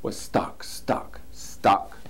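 whispered stucks. A narrator's reading. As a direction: hush it down in a whisper. Fox jaws stuck.

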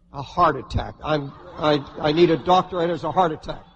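low, hammed-up alarm; mock panic. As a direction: play at being convinced it's fatal. Acts out imagined heart attack.

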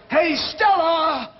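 big drawn-out theatrical holler, pitched high; demonstrated yell. Shown as a demonstration. Producer shows would-be actor the line, yelling. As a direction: yell it slowly, like a dramatic actor. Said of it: "let me hear you yell".

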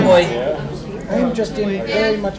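slow, loud, pained puppet wail; hammy puppet lament. Acted. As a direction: moan it like a dramatic puppet. Puppet complains dramatically.

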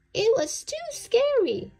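very high, loud wailing voice; bunny telling his mom how scary it was; frightened cry. A narrator's reading. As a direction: wail it, still scared. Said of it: "cried P J".

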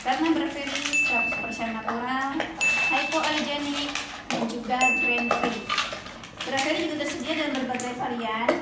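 upbeat sponsored product read. Acted. Owner reads the sponsor spot to viewers, ad voice. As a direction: sell it like a clear, friendly pet food ad.

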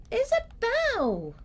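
stretched shout for Isabel; calling out. Real, not acted. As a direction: call her name across the room. Calling out to friend.

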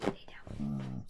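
hushed, breathy order to settle; whispered command. Real, not acted. Owner whispering to her old dog to lie down.

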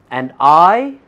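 slow, deliberate reading; read slowly. Shown as a demonstration. Preacher reading scripture slowly. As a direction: draw each word out for the congregation. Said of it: "let's read slowly".

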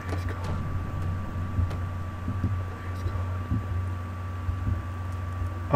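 barely voiced pleading whisper; whispered prayer. Real, not acted. Player hiding from the monster, whispered prayer. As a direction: pray under the breath, hiding.

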